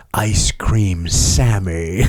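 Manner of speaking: slow, drawn-out goofy voice; Scott's silly voice. Retold or imitated. Friend imitating Scott's catchphrase, slow silly voice. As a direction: stretch it out like a running joke. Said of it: "he had this voice that he'd use".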